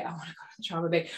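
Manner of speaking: quick, soft aside to herself; small inner protest. Retold or imitated. Doctor arguing with herself about trauma bay, small protest. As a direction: rush it out under the voice.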